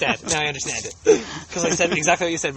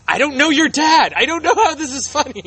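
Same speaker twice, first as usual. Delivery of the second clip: high confused viewer voice; 12 semitones higher, 6 dB louder than usual. Retold or imitated. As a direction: play a puzzled stranger, pitched up. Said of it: "People are gonna be like".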